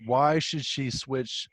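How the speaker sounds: each word drawn out slowly; slow and deliberate. Real, not acted. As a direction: press him slowly, word by word. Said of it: "Give me one answer".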